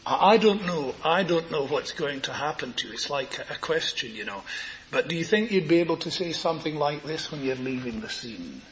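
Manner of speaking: said tenderly, with gentle care. Real, not acted. Preacher to a congregation facing death, tenderly. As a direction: speak tenderly to the listener. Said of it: "Let me say this terribly tenderly".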